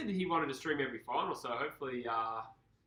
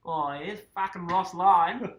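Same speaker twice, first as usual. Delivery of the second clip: higher, louder caricature of a mate; Busher impression; 6 semitones higher, 11 dB louder, slower than usual. Mimicking co-host ranting about Ross Lyon, exaggerated impression. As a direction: drag it out in a mock friend voice. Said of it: "Do a Busher accent".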